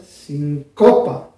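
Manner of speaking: sincopa begun on gentle air, slowly, speeding into CO; soft start, then accelerate. Shown as a demonstration. Teacher showing soft air first, then the accent, slowly. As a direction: ease in softly and push on CO. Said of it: "el aire suave".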